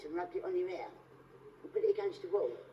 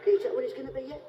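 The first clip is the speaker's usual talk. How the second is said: catchphrase quip; 3 semitones higher, 6 dB louder, faster than usual. Acted. Comic mimics a TV catchphrase.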